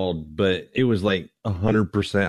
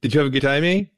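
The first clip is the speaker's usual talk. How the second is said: mock Canadian accent; 6 semitones higher, 3 dB louder, faster than usual. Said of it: "In his Canadian voice".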